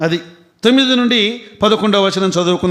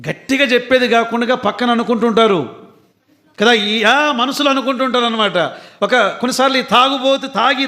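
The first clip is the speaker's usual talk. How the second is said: usual speaking voice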